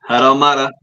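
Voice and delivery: light mock Italian-style accent; put-on accent, vaguely Italian. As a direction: say it in a rough Italian-sounding accent. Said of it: "the entire accent bothers me".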